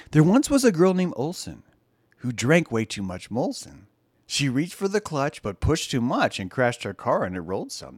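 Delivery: sing-song limerick, starting loud and high; playful limerick read, fading at the end; limerick recital. Acted.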